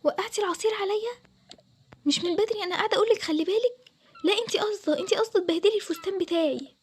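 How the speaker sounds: shrill indignant bride; angry accusation. Acted. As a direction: accuse her of doing it on purpose. Bride accuses sister-in-law over spilled juice.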